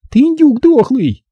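put-on high, slow girlish taunt; girl insulting. Zaza insults him.

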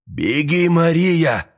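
high, desperate warning cry; urgent shout. A narrator's reading. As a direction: cry out for her to escape. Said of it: "крикнул Туми".

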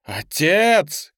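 urgent shouted ОТЕЦ; crying out. A narrator's reading. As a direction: cry ОТЕЦ out in alarm, falling at the end. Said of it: "крикнула Ли".

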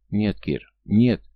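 rising to a loud cry on the last no; desperate no. Acted. She cries out in fear. («Нет!» — отчаянный громкий вскрик)

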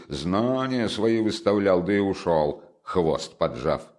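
put-on expansive, lightly drunken ramble; tipsy. Tipsy friend reassuring the family, lightly slurred. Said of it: "закричал хмельной Разумихин".

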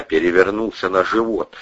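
ordinary delivery

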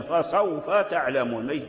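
فسوف تعلمون read slowly with no lengthening on سوف; connected recitation. Shown as a demonstration. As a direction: recite calmly, no stop. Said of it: "إذا وقفت تقول فسوف".

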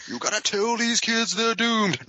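high crying doomsayer voice; overacted doom warning. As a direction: wail the warning in hammy panic. Dubbed doomed guy, cry-voiced.

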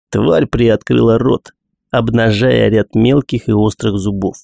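ordinary delivery

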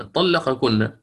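طلقكن with the qaf and kaf both sounded clearly; izhar pronunciation. Shown as a demonstration. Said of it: "عندك القاف والكاف". (طلقكن بإظهار القاف والكاف)

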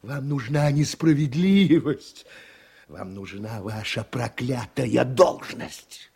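bitter accusation. Acted. Bitter accusation, words hammered out.

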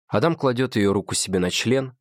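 plain reading voice

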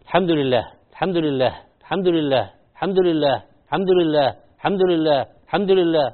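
quick, even run of الحمد لله, the final هاء swallowed; hurried الحمد لله; rushed tahmid. Retold or imitated. Teacher imitating a woman counting quickly, hurried. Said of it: "فهي تقول".

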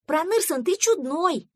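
high, loud cheeky call; the duckling shouts a cheeky remark at a busy neighbour; teasing shout. Acted. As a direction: yell it after him cheekily. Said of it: "крикнул утёнок".

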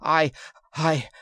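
breathless, gasping out the words; struggling for breath; panting. A narrator's reading. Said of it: "Yar panted".

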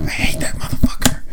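unvoiced confiding whisper. Nurse leaning in to whisper her grudge. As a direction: breathe it close to the ear. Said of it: "leans into me talk".

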